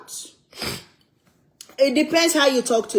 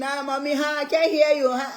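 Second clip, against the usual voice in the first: imitating a kid faking a bad phone line; 4 semitones higher, faster than usual. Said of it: "act like the line is broken".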